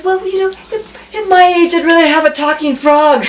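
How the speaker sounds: put-on old man punchline. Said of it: "And he goes".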